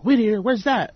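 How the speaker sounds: high retold question. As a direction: imitate a puzzled challenger, pitched well up. Other man questions his answer, retold.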